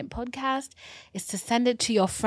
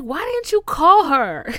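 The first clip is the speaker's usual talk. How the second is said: higher, louder mock scolding; mock angry cop; 8 semitones higher, 8 dB louder than usual. Cop scolding the mom, louder mock anger. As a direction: snap at her like a mad cop. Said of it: "the cop was so mad".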